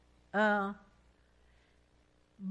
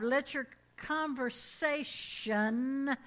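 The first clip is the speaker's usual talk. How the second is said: slow scripture reading; much slower than usual. Shown as a demonstration. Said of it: "everybody say conversation".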